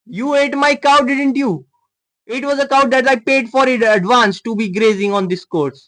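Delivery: stiff, self-righteous stranger accusing them; posh stranger character. Acted. Voices the cow-owner character. (ऊँची, धीमी नकली posh अमेरिकी आवाज़)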